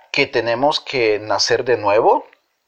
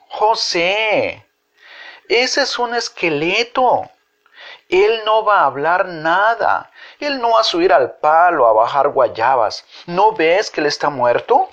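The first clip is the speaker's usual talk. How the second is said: put-on higher, insistent child; child's voice; 5 semitones higher than usual. A narrator's reading. Laura Alejandra telling José the skeleton is dead, in a high child's voice. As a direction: explain like a know-it-all kid.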